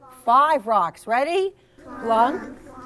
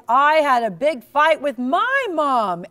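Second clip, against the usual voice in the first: sighing; 2 semitones higher, 6 dB louder than usual. Acted. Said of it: "he sighed".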